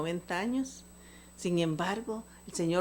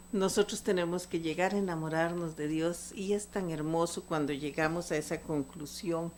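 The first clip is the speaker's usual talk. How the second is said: ordinary delivery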